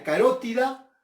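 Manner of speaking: carótida said ca-RO-ti-da; stress on antepenultimate. Shown as a demonstration. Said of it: "eh, perdón, en España carotida". (carótida con la fuerza en RO)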